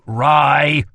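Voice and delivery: loud, urgent call of a name; sharp warning. Acted. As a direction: stop him mid-sentence. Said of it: "warned Kel".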